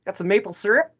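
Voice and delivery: lightly hammed-up Canadian, each eh tossed up as a tag question; mock Canadian eh. Canadian host teasing his British guest, mild mock Canadian accent. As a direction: play the Canadian cliché for a laugh, just a hint of accent. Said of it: "Can I say "eh" a couple of times in a row?".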